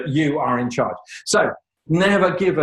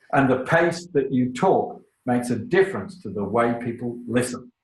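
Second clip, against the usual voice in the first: measured pace. Shown as a demonstration. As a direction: let each phrase land for the listeners. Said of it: "Do not speak too fast".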